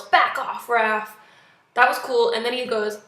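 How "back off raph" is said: imitated warning yell; retold yell. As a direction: call it out like a movie hero giving an order. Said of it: "he yells".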